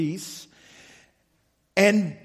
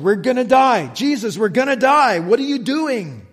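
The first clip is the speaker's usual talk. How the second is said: mock panic. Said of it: "they're just freaking out".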